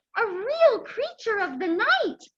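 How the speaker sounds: bright, thrilled, excited outburst. Reading a story aloud, a girl sees a bat: excited. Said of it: "Dorothy Ann said excitedly".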